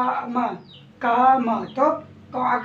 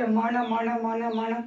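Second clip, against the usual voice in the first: said quickly; much slower than usual. Shown as a demonstration. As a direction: repeat "मण" quickly, over and over. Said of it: "जल्दी, अ, फटाफट बोलने की कोशिश कीजिए".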